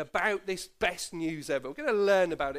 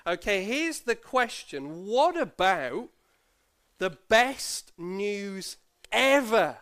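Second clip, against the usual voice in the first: put-on slow, drawn-out teasing question to the kids; playful children's-talk buildup; building suspense; 4 dB louder, much slower than usual. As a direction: hold them in suspense. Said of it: "listen to this very carefully".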